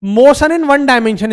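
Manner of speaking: slow and deliberate, each word separate; slow dictation. Shown as a demonstration. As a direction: say it carefully so the class can follow. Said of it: "एक एक बात ध्यान से देखना". (धीरे और साफ़, एक-एक शब्द अलग करके)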